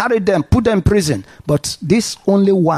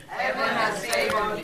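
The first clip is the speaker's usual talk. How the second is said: Heaven has favored me said much softer, under the breath; soft echo; 3 semitones higher, 12 dB quieter than usual. Shown as a demonstration. Congregation member echoing the preacher, a soft murmured Heaven has favored me. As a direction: repeat Heaven has favored me quietly to yourself. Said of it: "Say to yourself".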